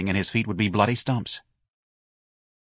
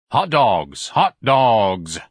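mildly irritated hawker's cry, a touch louder; a little angry; 5 dB louder, much slower than usual. A narrator's reading. Ignatius peddles to ladies who shun him, mildly angry. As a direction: push the hot dogs with a hint of annoyance. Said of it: "Ignatius said a little angrily".

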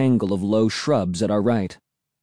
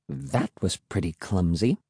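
soft and lower, gently teasing; softly; 5 semitones lower, 6 dB quieter than usual. Acted. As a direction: say it softly, almost under breath. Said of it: "Emily said softly".

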